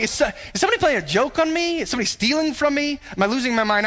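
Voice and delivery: panicking as if everything is vanishing; frantic. Retold or imitated. Panicked search for lost things.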